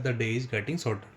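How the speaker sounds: words stretched out slowly; slow dictation. Shown as a demonstration. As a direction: say it slowly so students can copy it. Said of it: "teacher dictating slowly". (धीरे-धीरे लिखवाना)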